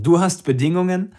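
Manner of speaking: amused disbelief. Acted. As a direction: scoff with a laugh at his nerve. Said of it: "Ich musste lachen".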